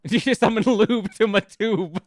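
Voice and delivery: loud, bursting laughter; laughing. Real, not acted. Streamer amused by silly rhyme, laughing loudly. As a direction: say it cracking up, then cackle. Cracking up at the lyric.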